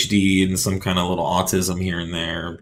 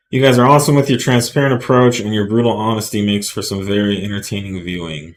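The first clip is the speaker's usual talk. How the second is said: reading a comment aloud; 2 semitones higher, 4 dB louder than usual. Acted. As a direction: read a viewer's message out to the room. Reads a viewer comment aloud.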